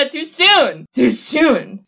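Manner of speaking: high, loud mock objection; mock protest. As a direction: cry out in joking protest. Reacting to an awkward joke.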